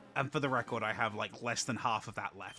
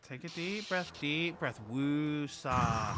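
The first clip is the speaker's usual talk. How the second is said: drawn-out soothing mantra; calming coaching; 4 semitones higher, 4 dB louder, much slower than usual. Real, not acted. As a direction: coach someone through a breath. Calming down the angry speaker.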